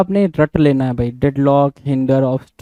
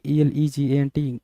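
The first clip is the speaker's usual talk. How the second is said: spelled letter by letter; 4 dB quieter, slower than usual. Shown as a demonstration. Teacher spelling out a word for students, slow and letter by letter. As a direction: slowly spell out each letter. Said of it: "एलिगेंट".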